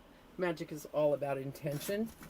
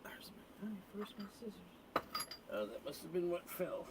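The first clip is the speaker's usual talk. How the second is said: whispered muttering; 4 semitones higher, 8 dB quieter than usual. Real, not acted. Muttering while searching for tools.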